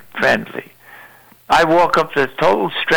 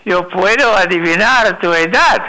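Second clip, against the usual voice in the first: put-on old woman voice; 5 semitones higher than usual. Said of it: "Ella dice".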